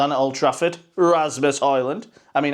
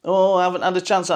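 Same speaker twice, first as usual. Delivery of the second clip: mock moaning; 5 semitones higher than usual. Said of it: "starts moaning".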